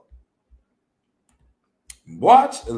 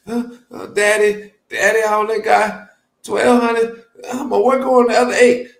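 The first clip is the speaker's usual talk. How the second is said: imitating a pleading prostitute; 3 dB louder than usual. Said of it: "That's how pimps talk to hoes".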